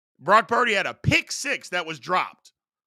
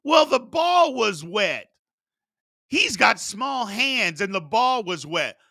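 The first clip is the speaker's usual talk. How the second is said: mocking excuse; 4 semitones higher than usual. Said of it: "Somebody even tried to make an excuse".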